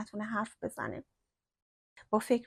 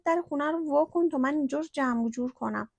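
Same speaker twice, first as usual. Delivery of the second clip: higher, louder, hurried orders; flustered urgency; 4 semitones higher, 5 dB louder than usual. A narrator's reading. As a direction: hurry her up in a fluster. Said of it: "با ترس گفت". (دستور دادن با عجله و هول)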